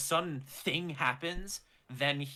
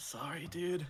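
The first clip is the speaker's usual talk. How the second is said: soft mutter under the breath to himself; 3 semitones higher, 6 dB quieter than usual. A player voices his character casting mage hand near a stall: muttering to himself. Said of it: "He mutters to himself".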